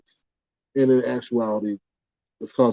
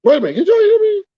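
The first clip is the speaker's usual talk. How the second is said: raised check-in; 6 dB louder, faster than usual. Real, not acted. Checking stream audio.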